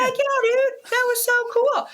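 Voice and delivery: very high, loud, thrilled cheer; excited cheer. Retold or imitated. Mom cheering her son, very high and loud. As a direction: cheer him on at the top of your voice. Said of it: "I'm like".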